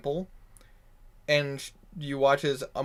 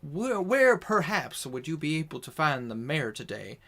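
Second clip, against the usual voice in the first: polite proper lady. Shown as a demonstration. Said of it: "a proper lady would simply ask".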